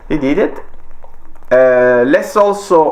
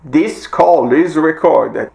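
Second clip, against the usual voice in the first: recorded message; slower than usual. Retold or imitated. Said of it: "there will be a message saying".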